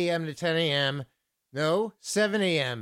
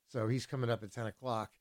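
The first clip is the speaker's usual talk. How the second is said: normal talking voice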